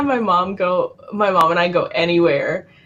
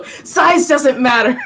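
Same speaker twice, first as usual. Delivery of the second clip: slow, higher, through laughter; laughing; 4 semitones higher, 3 dB louder, slower than usual. Real, not acted. Joking about being small, slow laughing delivery. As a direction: laugh through the words, drawn out.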